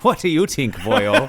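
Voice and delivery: high, hammed-up Irish brogue; teasing co-host in a bad Irish accent. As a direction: lean hard into a stage Irish lilt on "boyo". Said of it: "another bad accent from you".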